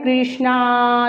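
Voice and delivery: कृष्णा with the final aa held long; calling out Krishna. Shown as a demonstration. Teacher shows calling कृष्णा with a drawn-out aa. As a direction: call कृष्णा as if across a field, stretching the last aa. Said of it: "जैसे कृष्णा को बुलाते हैं".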